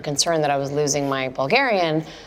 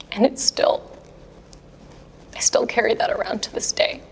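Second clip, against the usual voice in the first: mock whisper; 4 semitones higher than usual. Mock confession about lost battle.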